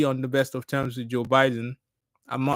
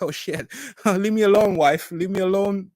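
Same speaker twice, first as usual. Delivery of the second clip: mock irritated self; 6 semitones higher than usual. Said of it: "I was like".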